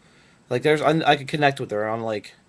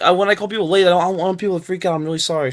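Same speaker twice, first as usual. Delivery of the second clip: mimicking the interviewer; 5 semitones higher, faster than usual.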